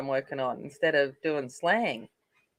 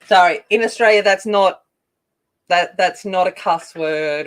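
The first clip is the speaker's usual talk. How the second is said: louder hurried apology; loud apologetic aside; 2 semitones higher, 9 dB louder than usual. Real, not acted. Apologising to viewers for swearing, loud. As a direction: raise voice to reassure viewers. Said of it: "Please don't be offended".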